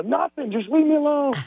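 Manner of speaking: high-pitched huffy brush-off; mock-sulky. Caller retelling his answer to his wife, mock-sulky. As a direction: act out a touchy, pestered husband.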